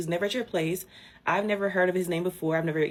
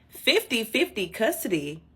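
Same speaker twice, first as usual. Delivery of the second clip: incredulous echo; 5 semitones higher, 3 dB louder than usual. Real, not acted. Repeats his claim incredulously.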